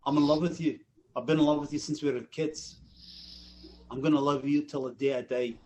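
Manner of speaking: understated Scottish declaration of love; Scottish accent. Retold or imitated. Auditioning actor telling a woman he loves her, Scottish accent. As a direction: speak it with a Scottish lilt. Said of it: "I did the black guy with a Scottish accent".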